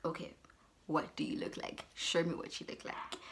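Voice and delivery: very soft, resigned questioning; retold subdued demand. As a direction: ask it under your breath, giving in. Wary, resigned reply to catfish.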